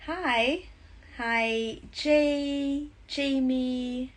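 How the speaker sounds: bright, loud greeting to viewers joining; excited greeting. Real, not acted. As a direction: call out hello to each arriving name.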